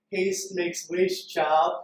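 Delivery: put-on slow, drawn-out old woman's proverb; lightly voiced sage granny, savouring each word; wise old grandmother. Speaker showing how the grandmother said it to him. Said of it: "like, more how she said it".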